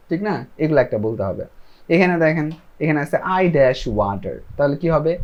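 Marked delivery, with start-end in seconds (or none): 3.2-4.3 each word slow and separate; slow model sentence. Shown as a demonstration. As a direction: spell it out slowly for learners. Teacher models gap sentence.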